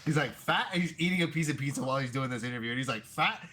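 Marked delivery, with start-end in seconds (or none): 0.3-0.7 high, loud mock Irish "Fat."; Irish accent impression. Fighter boasting about his belly, in mock Irish accent. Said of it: "hard Irish accent". 3.1-3.5 high, loud mock Irish brogue; proudly hammed-up Irish pizza lover; Irish accent impression. Fighter eating pizza in interview, mock Irish accent. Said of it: "hard Irish accent".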